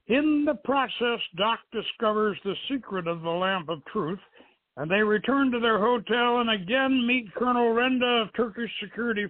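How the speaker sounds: measured announcer read, a touch grand; radio show intro. Acted. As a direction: welcome the listeners to tonight's show. Radio host opens the show.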